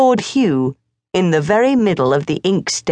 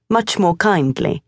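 ordinary delivery, nothing marked

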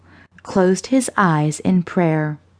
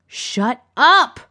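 higher-pitched angry outburst; shout; 6 semitones higher than usual. A narrator's reading. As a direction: moderate shout to silence someone. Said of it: "Perry shouted".

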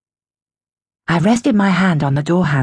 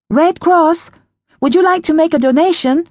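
high sweet stranger voice; relentless eerie caller; 10 semitones higher, 4 dB louder than usual. A narrator's reading. Stranger keeps repeating through door.

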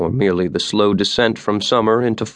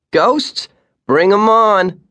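high, loud eager shout; 12 semitones higher, 4 dB louder, much slower than usual. A narrator's reading. The boy yells to the guide, thrilled by ghosts. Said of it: "the boy shouted".

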